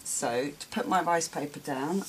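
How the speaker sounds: normal talking voice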